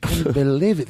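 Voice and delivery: usual speaking voice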